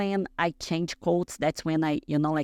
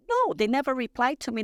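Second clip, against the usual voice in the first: high-pitched protest of disbelief; retold disbelief; 8 semitones higher than usual. Competitor answering friends about the invitation, acted-out disbelief. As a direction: act out refusing to believe good news.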